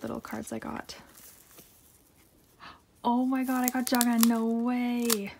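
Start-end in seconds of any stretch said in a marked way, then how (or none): 3.0-5.3 excited outburst, louder on the name; amazed, stretching out the final words; thrilled disbelief. Real, not acted. Collector pulling one of the biases, thrilled. Pulls a favorite member's card.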